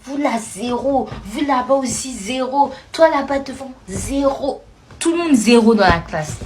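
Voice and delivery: a hint of a scornful teacher handing out zeros; contemptuous teacher. Madame Sissoko gives every pupil zero, lightly voiced scorn. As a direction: dish out the zeros with disdain. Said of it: "Elle était là".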